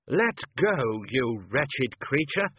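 put-on gruff old wizard, slow on "wretched"; scolding like a fussy old don. Wizard chair grabbing the sock.

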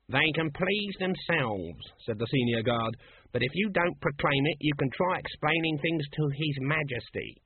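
slightly high, dismissive official voice; officious senior guard. Acted. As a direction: warn them officiously.

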